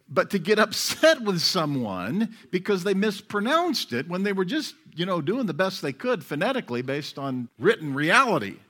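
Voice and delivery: usual speaking voice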